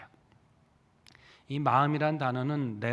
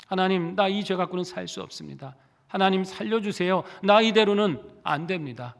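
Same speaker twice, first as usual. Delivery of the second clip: mild acted plea, growing louder at the end; desperate crying out; 2 semitones higher, 3 dB louder than usual. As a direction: build a desperate cry to God. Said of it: "절박하게 부르짖는 것". (점점 커지는 절박한 부르짖음)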